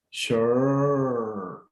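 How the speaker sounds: "Sure" long, tongue forward; stretched melody. Shown as a demonstration. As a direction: draw "Sure" out with a fall.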